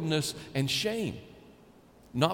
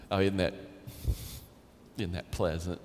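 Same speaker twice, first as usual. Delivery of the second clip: mock cozy; 10 semitones lower, 5 dB quieter than usual. Shown as a demonstration. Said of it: "chicken soup for the soul".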